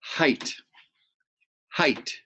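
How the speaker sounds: height said as HITE, no G or H sound; teacher showing silent letters; pronounce height. Shown as a demonstration. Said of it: "So it's pronounced height".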